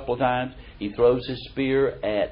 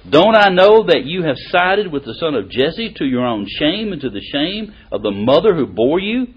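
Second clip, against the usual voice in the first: mild angry king; 4 semitones higher, 8 dB louder than usual. Retold or imitated. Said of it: "He said to him".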